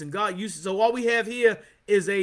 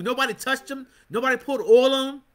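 rising shout; 2 semitones higher than usual. Real, not acted. Preacher building to a shout.

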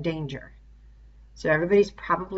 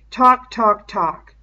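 bitter; 2 semitones higher, 7 dB louder, much slower than usual. A narrator's reading. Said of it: "said Ralph bitterly".

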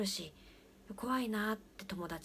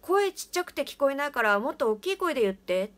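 loud, raised call to the next stall; calling out louder; 6 semitones higher, 10 dB louder than usual. Retold or imitated. Father loudly tells the mumbling voice to speak up. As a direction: shout it over the wall so they'll speak up.

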